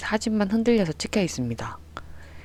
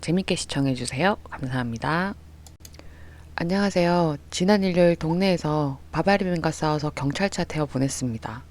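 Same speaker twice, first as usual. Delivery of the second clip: ordinary delivery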